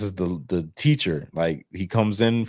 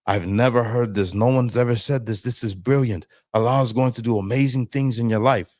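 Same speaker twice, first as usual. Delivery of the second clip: retelling the imam's rising, amazed praise in a lifted voice; retold imam, amazed and beaming at a brilliant idea; imam's excited praise; 3 semitones higher than usual. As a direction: play him thrilled at a new idea, carried away. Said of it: "He goes".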